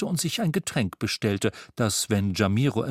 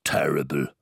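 much lower whispered terrible; Mister Xmas whispering his verdict on the sweater; 10 semitones lower than usual. A narrator's reading. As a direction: breathe it as an aside.

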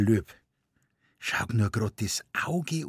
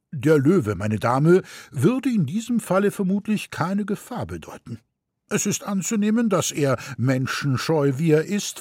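higher, lecturing know-it-all; pedantic gentleman; 7 semitones higher than usual. A narrator's reading. Gentleman with pince-nez correcting the mother, lecturing. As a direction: correct her with raised finger.

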